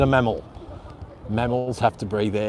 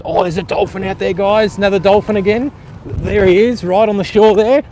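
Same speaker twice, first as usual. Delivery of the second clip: excited; 7 semitones higher, 6 dB louder than usual. Real, not acted. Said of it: "I got excited then".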